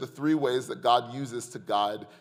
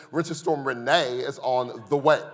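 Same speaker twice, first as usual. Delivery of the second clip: "Renee" said like a gossip about a friend, a touch louder; heard as a woman's name; 2 semitones higher, 5 dB louder than usual. Shown as a demonstration. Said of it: "I heard it like this".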